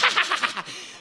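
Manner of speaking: imitated little girl's high giggle; giggling girl. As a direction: giggle like a cheeky daughter. Daughter laughs at crying brother.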